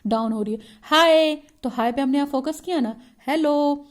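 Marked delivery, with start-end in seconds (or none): 0.8-1.3 "हाय" called high and loud; raised-pitch greeting. Shown as a demonstration. Teacher showing intonation on a greeting, high-pitched "हाय". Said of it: "कहाँ पे हमारी pitch लो हो रही है". 3.3-3.8 "हेलो" said on a lifted pitch; high-pitched greeting. Shown as a demonstration. Teacher demonstrating intonation, raised "हेलो". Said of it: "हाय हेलो बोलेंगे तो हमारी pitch automatic high".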